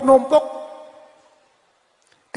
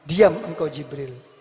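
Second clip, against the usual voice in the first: lower, calm commanding voice; divine command; 7 semitones lower than usual. Acted. God tells the pleading angel Jibril to be silent, low and calm. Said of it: "lupa diri".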